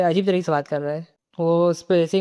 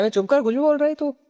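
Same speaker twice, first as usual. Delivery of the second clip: high, rough retort in another voice; angry snap; 9 semitones higher than usual. Acted. Guardian snapping at the nosy boy, high irritated retort. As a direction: shut him up, irritated.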